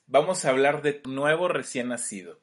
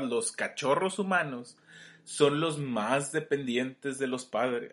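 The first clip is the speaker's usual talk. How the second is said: voz de documental; 3 semitones lower, 6 dB quieter than usual. Shown as a demonstration. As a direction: narrate like a wildlife film. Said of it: "así como con voz de documental". (voz de documental de naturaleza, pausada)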